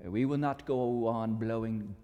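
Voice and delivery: fan the coal with rising fervor, then let it die to dust; Scottish mentor. Acted. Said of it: "his mentor".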